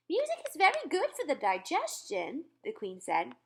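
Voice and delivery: gracious encouragement; the Queen. Acted. Narrator voices the Queen.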